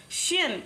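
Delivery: "शियन" said as shee-un in two syllables; pronounced shiyan. Shown as a demonstration. Teacher shows students how "शियन" sounds, as shee-un. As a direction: model "शियन" clearly as shee-un, ending in a light un. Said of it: "इसको हम pronounce कैसे करते हैं?".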